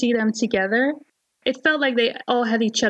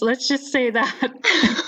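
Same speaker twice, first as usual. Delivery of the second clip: laughing; slower than usual. Real, not acted. Teasing joke, laugh heard.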